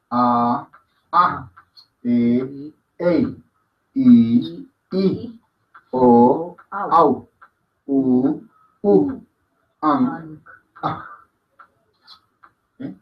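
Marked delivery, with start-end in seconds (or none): 0.1-11.1 each vowel separate, "A, A, E, Ei" in long-short pairs; vowel recitation. Shown as a demonstration. Teacher drilling the vowels, measured one-by-one recitation. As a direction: recite evenly with pauses, ending on guttural "Ang". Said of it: "Y la voy pronunciando".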